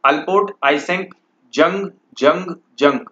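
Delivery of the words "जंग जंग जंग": Jung said as जंग, hard j and short u; correct pronunciation. Shown as a demonstration. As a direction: say जंग with a clear English j. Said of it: "इसको आप जंग पढ़ें".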